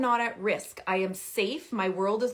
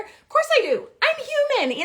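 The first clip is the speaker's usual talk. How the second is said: much higher and louder, exclaiming; emphatic admission; 6 dB louder than usual. Real, not acted. Mother admitting she feels like yelling, exclaimed high and loud. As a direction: throw it out high like a confession. Admitting anger, playful overstatement.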